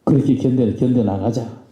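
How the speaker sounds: solemn retold exhortation; very earnest. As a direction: quote the boss earnestly, pausing between phrases. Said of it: "아주 진지하게 하시는 말씀이".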